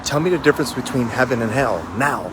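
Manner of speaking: shouted demand. Retold or imitated. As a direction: bark the demand at the monk.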